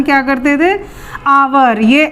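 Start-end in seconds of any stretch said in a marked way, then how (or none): 1.3-1.8 "आवर" with the H left silent. Shown as a demonstration. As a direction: say "आवर" starting straight on the vowel. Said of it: "एच silent हो जाता था". ("आवर", एच silent रखकर)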